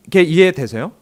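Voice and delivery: ordinary delivery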